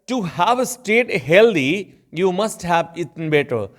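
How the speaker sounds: very slow, careful English example sentence; slow example read. Shown as a demonstration. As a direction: read each word out slowly for the class. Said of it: "teacher reads example slowly". (धीरे-धीरे उदाहरण वाक्य पढ़ना)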